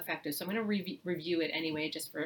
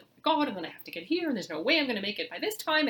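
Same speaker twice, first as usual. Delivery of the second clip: fast, louder, panicked morning rush; frantic rushing parent; 5 semitones higher, 6 dB louder, faster than usual. Retold or imitated. Parent panicking aloud about being late, in front of kids, fast and frantic. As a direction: rattle it off like a stressed parent running late. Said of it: "especially when we're like".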